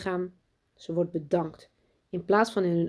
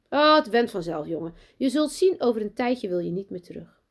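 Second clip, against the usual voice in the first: a hint of a sweet schoolmistress, higher; lightly voiced sugary teacher; 3 semitones higher, 4 dB louder than usual. Teacher greeting new pupil Lucas, overly sweet. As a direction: greet the boy with put-on cheer.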